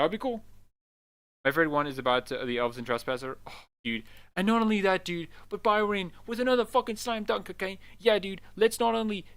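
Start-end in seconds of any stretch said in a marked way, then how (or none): 4.4-9.2 hyped up. Real, not acted. Hyped rant about Bioware.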